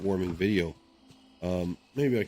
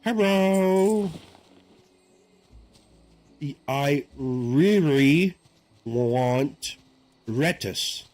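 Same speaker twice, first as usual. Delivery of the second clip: higher, slow mock East Asian accent with L and R swapped; imitated East Asian accent, louder and slow; 6 semitones higher, 4 dB louder, much slower than usual. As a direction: imitate an East Asian learner mixing up L and R in "lettuce". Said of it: "the way they say their L's and R's".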